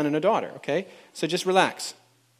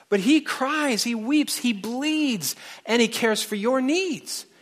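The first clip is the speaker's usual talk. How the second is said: higher, pleading rebuke, slow in places; reciting a singer's lyrics; 7 semitones higher than usual. Retold or imitated. Preacher reading a singer's lyrics to the congregation, impassioned and higher. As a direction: recite the song like a fiery rebuke. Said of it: "the singer is about to spank everything".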